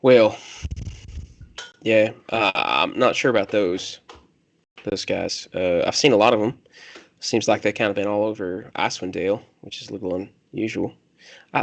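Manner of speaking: lightly voiced country loner, hesitant; a hint of country accent, halting between thoughts. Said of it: "your country voice".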